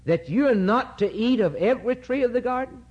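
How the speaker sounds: serpent's taunting question. Acted. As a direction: lure her with mock astonishment. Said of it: "Is what he's saying to her".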